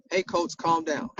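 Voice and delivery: easy, even "Hey, coach, calm down."; soft "Hey, coach, calm down." with no edge; calm reminder. Shown as a demonstration. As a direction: repeat "Hey, coach, calm down." in a mild, friendly tone. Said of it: "that's how I said it".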